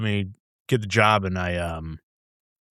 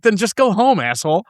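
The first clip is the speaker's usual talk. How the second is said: high, loud mock exasperation, dropping on the insult; imitating gruff-talking boss; 10 semitones higher, 4 dB louder than usual. Boss dismissing his overworked brewer, mock exasperated. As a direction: imitate the boss's exasperated send-off. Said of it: "that's how he talks".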